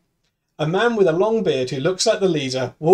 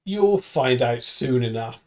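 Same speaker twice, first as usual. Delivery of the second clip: lower, slow and menacing, lightly voiced; ominous leader; 4 semitones lower, 3 dB quieter, slower than usual. Bearded leader warns the captives, slow and ominous. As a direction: let the threat hang slowly. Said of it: "I'm bearded man".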